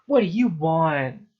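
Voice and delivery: loud, irritated teacher snapping at a pupil; disdainful. A narrator's reading. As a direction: demand it loudly, with contempt. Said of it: "looked at me with disdain".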